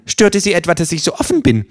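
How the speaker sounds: cheeky kangaroo. Acted. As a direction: play the kangaroo, dry and cocky.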